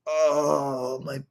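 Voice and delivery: mocking a streamer faking pain, high and whiny; hammed-up groan. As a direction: whine like a faker on a treadmill. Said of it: "he just goes".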